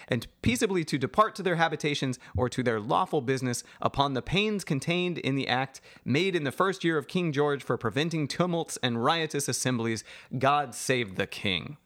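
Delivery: lightly pompous reading of the act; mock proclamation. Shown as a demonstration. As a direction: declaim like a town crier. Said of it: "I'm gonna read you the Riot Act".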